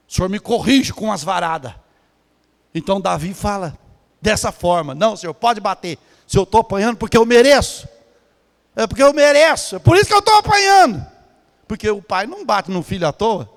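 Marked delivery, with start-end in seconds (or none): 4.9-11.0 building confession. Acted.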